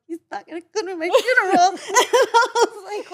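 high, loud laughter on the words; cracking up mid-sentence; laughing. Real, not acted. Picturing Seth skipping her funeral, laughing hard and loudly.

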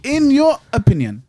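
high, loud mock-primitive finish; caveman talk. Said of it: "talk to him like a caveman".

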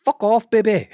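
high, loud mocking yell; mock shout. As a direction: bellow the taunt for laughs. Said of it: "it sounds just like that".

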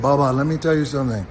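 affectionate accent imitation; Iron Sheik. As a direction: put on his accent, confiding in a rookie. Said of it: "he had this great accent".

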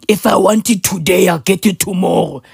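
a hint of a mocked speaker; mimicked English speaker. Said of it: "only for your kid to sound like".

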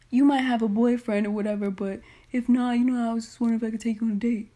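a lightly put-on, rushed suitor; mock guy voice. Reading out a guy's date request, mocking him lightly. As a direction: rattle off his pitch like a nervous guy.

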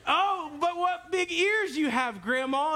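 put-on high, slow wide-eyed girl; innocent Little Red. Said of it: "And Little Red Riding Hood, you know, she's just innocent".

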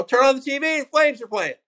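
high, loud mock crowd yell; imitated angry yelling. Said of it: "they're all yelling at him".

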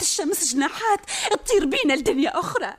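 hopeful yearning. Acted. Princess dreams of another world.

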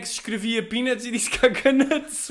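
mock justification. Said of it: "O gajo depois a justificar-se".

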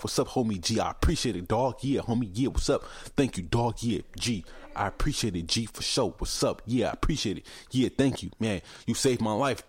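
lightly voiced effusive bro, repeating homie and dog; grateful street guy. Imitating the cigarette guy thanking the speaker, mildly hammed-up. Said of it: "the way he responded was like".

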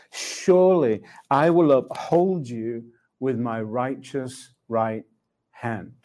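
slow, measured verse with long pauses; scripture reading. Retold or imitated. Preacher reading God's promise to listeners, solemn and slow. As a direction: read it out deliberately, phrase by phrase. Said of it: "And it says this".

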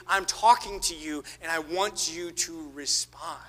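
slow, soft and earnest; God gently asking the listener to respond, slow and soft; God's patient voice. Retold or imitated. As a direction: speak slowly, gently insisting. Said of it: "what he's saying is".

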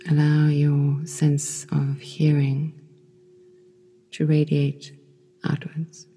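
calm meditation voice with long pauses; unhurried, soothing yoga nidra guidance; guided meditation. Acted. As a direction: guide them gently into rest, leaving space between phrases.

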